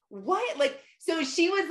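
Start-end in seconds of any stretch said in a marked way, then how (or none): 0.1-0.6 not hearing. Retold or imitated. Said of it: "Like, she wasn't hearing".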